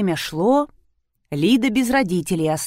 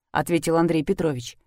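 usual speaking voice

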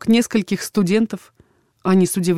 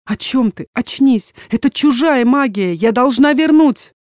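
protesting daughter; 5 semitones higher, 4 dB louder than usual. Acted. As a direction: voice climbing higher and louder with each line.

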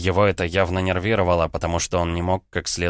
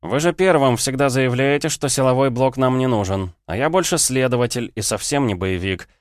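high, pointed taunt; sarcastic security officer; 6 semitones higher, 3 dB louder than usual. Acted. Officer taunts the minister who blocked funding, spitefully sarcastic. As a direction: throw their words back, pitched up.

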